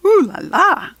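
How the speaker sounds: high, loud and showy; ooh la la. Acted. Girl admiring her fancy dress, playful and showy. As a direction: sing it out like a fancy lady.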